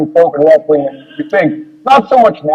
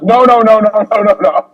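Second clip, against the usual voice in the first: mock emphatic no; 5 semitones higher than usual. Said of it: "the next couple lines are just".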